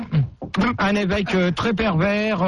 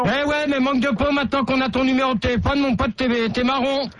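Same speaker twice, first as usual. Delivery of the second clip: higher, fast taunting threat; threatening; 5 semitones higher than usual. Acted. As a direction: rub it in, menacing. Canular, menace au téléphone. (menace moqueuse au téléphone)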